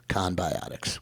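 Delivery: a sly whispered aside on conbiotics. Acted. Dentist whispering to the audience, a secret aside. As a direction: whisper conbiotics low and unvoiced.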